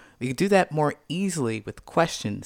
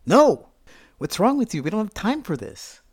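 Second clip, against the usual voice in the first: snapping back; 5 semitones higher than usual. Retold or imitated. Snapping at partner before meeting parents, irritated. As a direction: bark it back at them.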